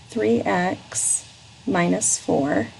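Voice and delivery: three x minus four said slowly, word by word; slow dictation of three x minus four; dictating. Shown as a demonstration. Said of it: "read it back to me".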